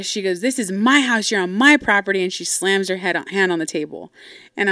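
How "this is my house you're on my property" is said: raised retold declaration; angry assertion. Mom to daughter in argument, acted indignant assertion. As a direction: imitate a mom claiming her ground.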